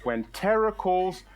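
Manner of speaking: slow, measured therapist's advice; lightly acted therapist, drawn-out delivery. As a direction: recite a calming mantra very slowly, with long spacing. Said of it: "good words of my therapist".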